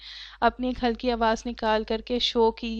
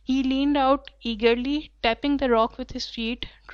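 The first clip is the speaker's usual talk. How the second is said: reading the passage very slowly and clearly; slow story reading; 3 dB louder, much slower than usual. A narrator's reading. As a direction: read each word out slowly for the class. (کلاس کے لیے بہت آہستہ پڑھنا)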